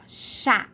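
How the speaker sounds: "chá" with a wide open á; "chá" as one stressed, open syllable; open vowel. Shown as a demonstration. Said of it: "E é bem aberto".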